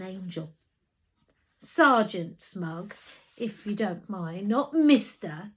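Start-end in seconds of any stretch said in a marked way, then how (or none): 1.6-5.5 insisting. Acted. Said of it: "he insisted".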